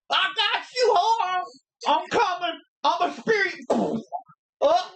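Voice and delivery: put-on high, creaky old man calling out. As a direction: croak it like a frail old man shuffling over. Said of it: "that's a pretty good old, that, that reminds me of my old man, man impression".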